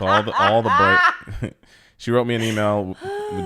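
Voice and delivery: breaking up with real laughter; laughing while talking. Real, not acted. Husband recalling the email she wrote him, laughing. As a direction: laugh through the words and restart.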